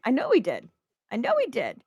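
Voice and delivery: high sneering I know he did; mean girl voice. Acted. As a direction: taunt back like a mean girl. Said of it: "mean girl voice".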